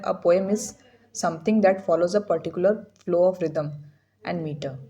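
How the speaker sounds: reading each word out slowly and evenly; slow definition reading. Acted. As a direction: read it out like a slow textbook dictation. Reads definition slowly aloud.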